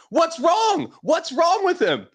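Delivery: retold frantic high cry about the golfer; retold panicked scream. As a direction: play the wife's alarmed shriek, half-mocking. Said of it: "she's screaming".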